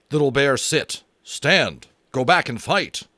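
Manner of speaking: a wounded chief demanding to go back; Little Bear pushing through the pain, loud. Acted. Little Bear insists on fighting.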